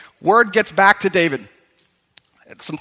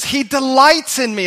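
higher and louder, proclaimed with conviction; confident declaration; 6 semitones higher, 4 dB louder than usual. Shown as a demonstration. Preacher modelling David's confidence for the congregation, loud and bold. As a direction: announce it boldly like David. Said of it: "and David says".

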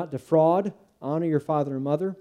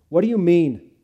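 loud, higher, dismissive; hostile; 4 semitones higher, 9 dB louder than usual. Acted. Judah rebuffing Zacchaeus's offer, hostile and loud. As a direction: say it like get out of my sight. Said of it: "sounded more like, "Get out of my sight".

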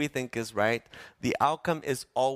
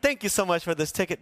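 higher, fast fake-sweet thanks; fake politeness; 5 semitones higher, faster than usual. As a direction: put on a polite act for the officer. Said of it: "You can put on".

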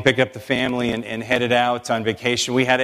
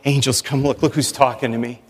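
delighted God. Pretend. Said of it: "He's going".

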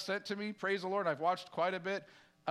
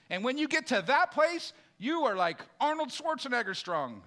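1 fired-up preaching; 4 semitones higher, 4 dB louder than usual. Real, not acted. Preacher building to a climax.

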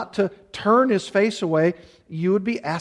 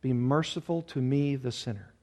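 softer, sinking into a humble murmur; quiet penitent plea; 5 semitones lower, 8 dB quieter than usual. Acted. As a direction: beg for mercy under your breath. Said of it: "beating his breast, saying".

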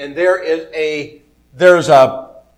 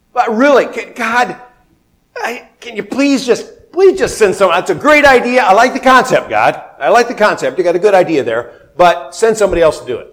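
mock pleading; 3 semitones higher than usual. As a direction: beg God to send someone else, half joking. Voicing people pleading with God.

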